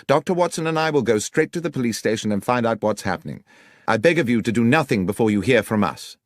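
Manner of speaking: steady him with firm resolve; Holmes, firm. Acted. Holmes restrains Carpenter, lightly voiced and firm. Holmes calms the distraught father.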